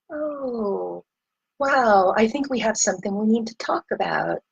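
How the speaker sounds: quick, whispered fake composure; mock fake calm. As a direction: play it unrealistically breezy. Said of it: "not as simple to just be like".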